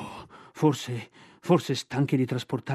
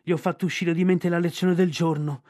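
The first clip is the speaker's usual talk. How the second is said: despairing bear. Acted. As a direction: wail your misery as the bear. Bear's despairing lament.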